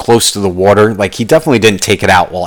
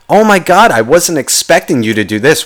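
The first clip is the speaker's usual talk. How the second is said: hammed-up delighted gasp; mock pleasant surprise; 6 semitones higher than usual. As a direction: gush like someone pleasantly shocked. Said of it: "I'll even go positive".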